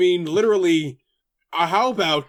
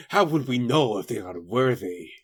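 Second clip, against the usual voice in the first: robot assistant voice; 9 semitones lower, 4 dB quieter than usual. Acted. Voicing Alpha.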